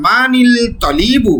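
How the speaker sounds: মানিল তলিবু drawn out slowly, লাম sounded; slow demonstration. Shown as a demonstration. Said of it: "আলিফ লাম যেহেতু আছে".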